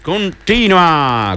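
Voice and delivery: "continua" stretched very slowly; slow, lingering "continua"; drawn-out continua. Retold or imitated. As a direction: drag out "continua" like Flo does. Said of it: "come dice Flo".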